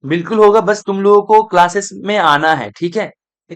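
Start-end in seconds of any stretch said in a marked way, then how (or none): 0.1-0.6 louder, firm reassurance; emphatic yes. Real, not acted. Teacher assures students the question will come, louder. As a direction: lean on होगा, louder and firm. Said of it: "question होगा ना?".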